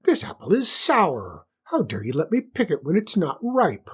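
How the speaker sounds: high shrill-free furious queen shout; screaming queen. Acted. Spoiled queen screaming at her ladies-in-waiting, angry. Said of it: "and screamed".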